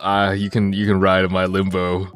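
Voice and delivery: fake masculine voice. Shown as a demonstration. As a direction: play a cocky bro. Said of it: "Let me show you the fake masculine accent".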